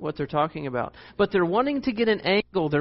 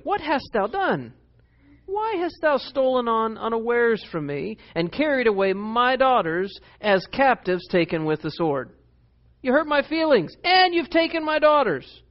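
Laban; 6 semitones higher than usual. Retold or imitated. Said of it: "And Laban said unto Jacob".

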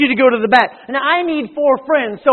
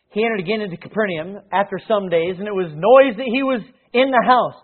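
steady formal reading of scripture. Acted. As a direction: read the passage with weight. Reads scripture aloud.

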